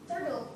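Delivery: "Turtle" with the second T as a D; flap T. Shown as a demonstration. Teacher shows T before syllabic L, "Turtle" with a D. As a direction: say "Turtle" like "turdle". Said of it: "you can change T sound to a D".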